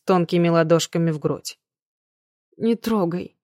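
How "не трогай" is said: cold. A narrator's reading. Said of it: "холодно произнесла Мэнкс".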